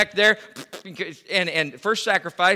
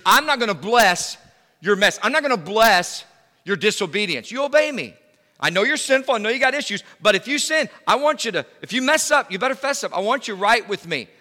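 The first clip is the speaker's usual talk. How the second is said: louder and higher, stern and commanding; God's stern rebuke; 4 semitones higher, 4 dB louder than usual. Acted. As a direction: thunder it like God laying down the law. Preacher voices God rebuking.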